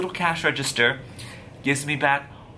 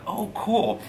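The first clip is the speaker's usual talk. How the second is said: higher-pitched pleased "oh, cool"; acted delight; 9 semitones higher than usual. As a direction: react with mock-impressed delight. Acting out pleased first reaction.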